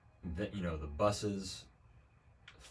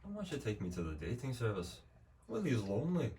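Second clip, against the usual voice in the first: lightly voiced lonely groundskeeper, rising high at the end; a hint of a sad Willie; mock-pitiful Willie, pitch jumping up on the last words; Willie quoted; 5 semitones higher than usual. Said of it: "he literally just says".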